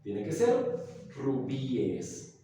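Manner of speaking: ser and rubíes slow and firm, falling at the end; correcting rubís to rubíes; slow, stressed correction. Shown as a demonstration. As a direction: insist on rubíes, slowly. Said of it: "No existe rubís".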